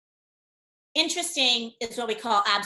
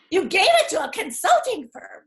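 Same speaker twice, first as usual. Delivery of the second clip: much higher, louder disbelieving echo; incredulous repeat; 9 semitones higher, 4 dB louder than usual. Retold or imitated. Consultant echoing the executive's news in loud, high disbelief. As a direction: throw the words back in disbelief.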